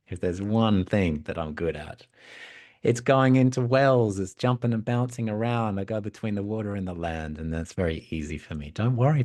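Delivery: upbeat storybook frog, lifting on the boasts; lightly voiced eager, cheery frog; cheerful. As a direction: cheerfully reassure a princess. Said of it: "quite cheerfully".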